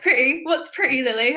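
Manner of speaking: mock drunk teasing voice; mocking friend. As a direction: imitate a friend mocking her. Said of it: "You made fun of me".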